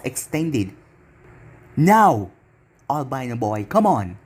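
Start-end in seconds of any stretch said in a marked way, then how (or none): 1.8-4.2 demonic voice. Acted. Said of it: "Naruto said in a demonic voice".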